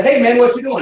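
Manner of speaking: high, loud Southern call-out; Southern accent. Retold or imitated. Preacher hails a boy walking on the road, Southern accent. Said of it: "say it like that with a Southern accent".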